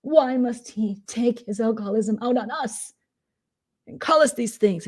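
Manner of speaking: high, melodramatic whine; mocking Momo. Imitating Momo lamenting to Lumberjack in a high whine. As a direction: wail it like a tragic victim. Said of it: "And Momo's like".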